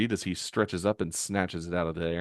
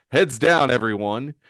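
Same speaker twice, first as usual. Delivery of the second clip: loud command to the room; brisk raised warning; warning call; 4 semitones higher, 6 dB louder than usual. Acted. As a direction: call out to a crowd to duck. Hero warns crowd.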